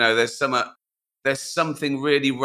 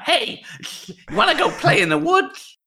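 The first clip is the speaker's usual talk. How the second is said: lisping dog voice. Pretend. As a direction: talk like a dog with a lisp. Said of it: "You'd probably talk like that".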